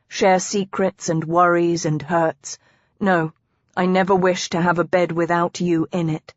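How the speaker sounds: a hint of earnest devotion; confiding husband. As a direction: explain it to her, measured and sincere.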